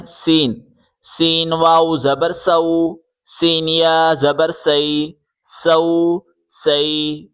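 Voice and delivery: sharp whistled s on "سین", "سو", "سی"; whistling s. Shown as a demonstration. Teacher asking pupils for a whistle sound, whistling s. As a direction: make the s of "سین" whistle, then draw out the vowel. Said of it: "سیٹی کی آواز نکالیں".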